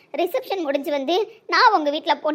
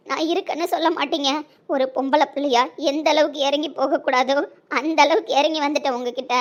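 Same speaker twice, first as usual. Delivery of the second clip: usual speaking voice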